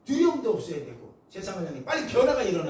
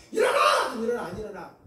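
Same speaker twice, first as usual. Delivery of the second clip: imitated wake-up yell; 3 semitones higher than usual. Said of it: "제가 묘사를 주는 거예요".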